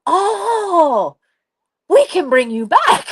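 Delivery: cheerful adults' chorus. Retold or imitated. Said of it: "they all go".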